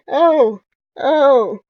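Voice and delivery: loud, high delighted oh; excited gasp. Acted. Player spots Bastion's yellow bird, loud excited cries. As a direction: burst out at the cute bird.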